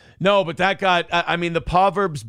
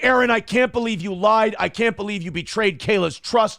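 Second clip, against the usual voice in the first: higher, indignant scolding; mock outrage; 6 semitones higher than usual. Roommates scolding Aaron over the lie, mock outraged. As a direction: play the shocked roommate accusing him of betrayal. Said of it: "Everyone went fucking crazy".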